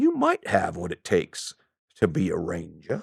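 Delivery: very soft, hushed, slow, bad Southern drawl. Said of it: "I don't have a very good Southern accent".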